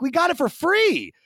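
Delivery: loud, very high exasperated rant; hammed-up outraged yelling, voice way up high; mock outrage. Son scolding mother over a false alarm, mock outrage.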